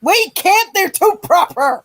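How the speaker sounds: mock crying. Mock despair about the UK.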